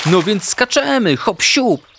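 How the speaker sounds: high, excited little-animal voice; bouncy and high-pitched; eager leap. A narrator's reading. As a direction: chirp it, raring to jump. Ignaś eager to jump in water.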